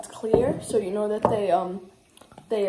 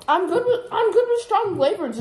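high, squeaky mocking parrot; mocking imitation; 9 semitones higher than usual. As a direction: mimic him in a silly high voice. Mocking the other's boast.

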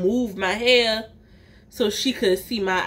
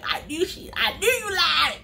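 laughing inner shout; 5 semitones higher than usual. Retold or imitated. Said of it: "up in my head".

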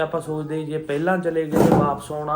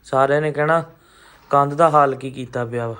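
loud, raised parental telling-off; scolding; 7 dB louder than usual. Real, not acted. Father scolding his son for scribbling on the wall, loud.

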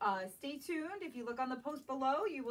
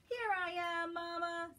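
higher, bright little cub voice; Baby Bear; 5 semitones higher than usual. Acted. Baby Bear revealing his hiding spot to Mama, higher playful. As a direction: pop out cheerfully from hiding. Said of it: "says Baby Bear".

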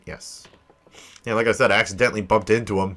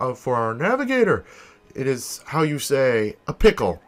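lightly voiced pompous captain, emphatic swoops; theatrical ship owner; 3 semitones higher than usual. Ship owner explains missing navigator to crew, pompous. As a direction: explain the crisis with foreign-tinged flourish.

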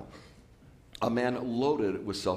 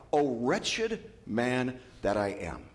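lament; much slower than usual. Acted. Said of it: "he cries out".

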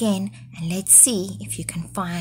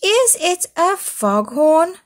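high, loud startled question; crying out; 8 semitones higher, 6 dB louder than usual. Acted. Foal crying out at the goat's snoring, high and loud. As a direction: cry it out in alarm. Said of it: "cried Foal".

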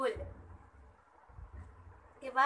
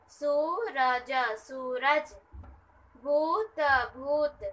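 slow revision; much slower than usual. Shown as a demonstration. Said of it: "revise कर लेते हैं".

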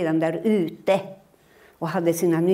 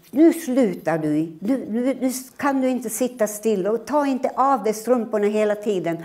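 a mildly cross mother, a little higher and louder; scolding mother; 5 semitones higher, 3 dB louder than usual. Acted. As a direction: tell off the fidgety boy. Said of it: "jag var arg på honom". (arg mamma som skäller på sonen)

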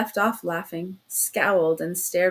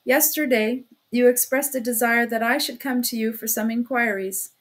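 "inquiries" leaned on with deliberate weight; a pointed weight on "inquiries"; stress on inquiries. Acted. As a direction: press down hard on "inquiries". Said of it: "He laid special stress upon the word inquiries".

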